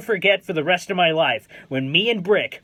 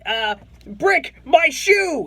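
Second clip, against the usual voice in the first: excited call out; 7 semitones higher, much slower than usual. Retold or imitated. Calling out to player for autograph.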